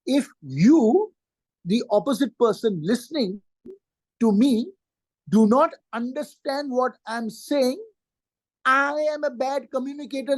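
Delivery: slow, spaced-out restatement with pauses; slow and emphatic, pausing between phrases; deliberately slow. Shown as a demonstration. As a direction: spell it out slowly, phrase by phrase. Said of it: "I'll say this again slowly".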